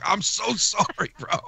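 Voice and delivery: high, slow apology broken by laughter; laughing apology. Retold or imitated. Retelling an apology to the offended kid, laughing. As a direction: crack up halfway through saying sorry.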